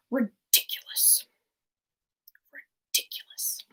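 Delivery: imitated disdain, whispery and drawn back; disdainful. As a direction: sneer the word quietly, half-successful villain impression. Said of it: "can't quite do it with as much disdain".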